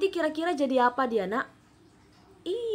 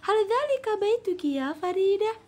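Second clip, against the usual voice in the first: put-on higher questioning girl's voice; Jamila asking; 9 semitones higher than usual. Shown as a demonstration. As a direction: ask curiously as Jamila. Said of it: "kata si Jamila".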